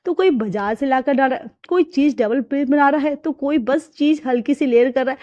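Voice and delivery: a lightly voiced bride grumbling over recipes; half-annoyed, half-lost, talking to herself; frustrated young wife. Bride muttering at cooking channels, exasperated.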